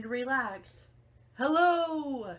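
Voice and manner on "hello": loud, higher shouted hello; tortoise shouting. Acted. Tortoise shouts a greeting to Hank, loud and high. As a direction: call out loud across the yard. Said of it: "shouted a tortoise".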